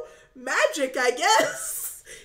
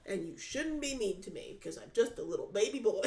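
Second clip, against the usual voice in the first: mock baby whine; 7 semitones lower, 9 dB quieter than usual. Mocking as a whiny baby.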